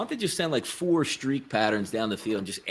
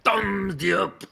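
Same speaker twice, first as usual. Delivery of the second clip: higher mocking echo of thumbs up; 7 semitones higher than usual. Real, not acted. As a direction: copy it back with a tease. Echoing the joke.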